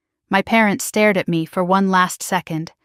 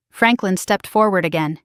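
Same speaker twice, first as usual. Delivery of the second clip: plain reading voice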